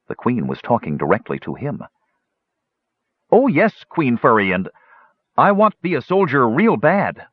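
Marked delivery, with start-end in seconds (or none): 3.3-7.3 high, eager gully dwarf voice. A narrator's reading. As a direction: beam at the queen like a simple dwarf.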